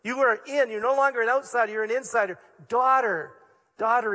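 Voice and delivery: Jesus assuring the woman she belongs; fervent proclaiming. Acted. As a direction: declare it to her with fervour. Preacher voicing Jesus to woman.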